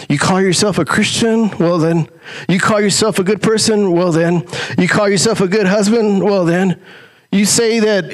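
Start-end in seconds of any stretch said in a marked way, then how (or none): 0.1-2.1 mocking challenge. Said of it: "I talk to you about your". 2.5-4.4 mocking challenge. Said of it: "I talk to you about your". 4.8-6.8 mocking challenge. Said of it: "I talk to you about your".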